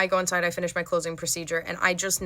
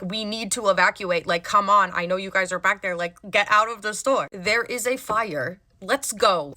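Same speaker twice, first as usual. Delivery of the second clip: retold yell. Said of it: "I start yelling as loud as I can".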